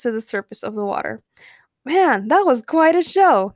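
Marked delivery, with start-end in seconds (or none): 1.8-3.5 slow, high, loud crowd cheer; impressed storybook yell. A narrator's reading. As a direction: yell it out in drawn-out admiration. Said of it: "many of them yelled".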